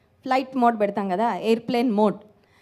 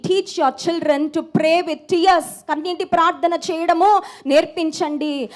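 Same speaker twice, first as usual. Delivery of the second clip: raised, emphatic sermon delivery; impassioned preaching; 2 semitones higher, 3 dB louder than usual. Real, not acted. Preacher urging parents to teach prayer, impassioned preaching. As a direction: exhort the congregation, driving on to the hallelujah.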